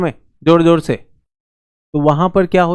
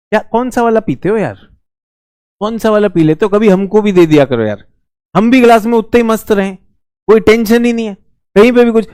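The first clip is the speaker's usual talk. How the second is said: teasing banter; 5 semitones higher than usual. Real, not acted. Teasing students about drinking.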